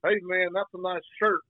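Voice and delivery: badly imitated Orlando local accent; Florida accent. Florida guy compliments a stranger's shirt, mock Florida accent. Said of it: "I don't know what kind of accent that is".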